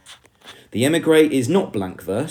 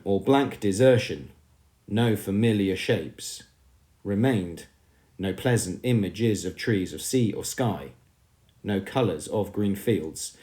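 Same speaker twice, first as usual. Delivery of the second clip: poem reading. Acted. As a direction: read each line out with weight and pauses. Reads poem lines aloud.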